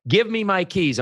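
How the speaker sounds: high-pitched acted demand; exasperated customer. Customer wanting to leave the dealership, exasperated. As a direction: play a customer insisting, voice pushed up high.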